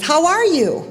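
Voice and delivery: high, swooping friendly call; father calling out. Retold or imitated. Father calling to the unseen voice, high swooping call. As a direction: call it across the woods, pitch falling away. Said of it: "And the father says".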